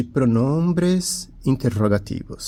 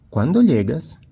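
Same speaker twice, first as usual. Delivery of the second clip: Como te llamas? with a big rising-falling question tune, higher and louder; 4 semitones higher, 3 dB louder than usual. Shown as a demonstration. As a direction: ask Como te llamas? warmly. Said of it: "advérbios interrogativos".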